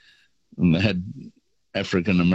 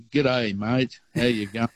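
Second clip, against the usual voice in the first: mock-broad Australian greeting, pitched higher; playfully exaggerated Australian drawl on the greeting; broad Aussie accent; 4 semitones higher than usual. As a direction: ham up the Australian accent so they know you're not English. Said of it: "broadened the accent".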